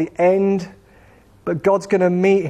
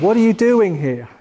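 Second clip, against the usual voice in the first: higher-pitched, gentle question; tender; 4 semitones higher than usual. Acted. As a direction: ask with kindly concern. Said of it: "There's a tenderness in his voice".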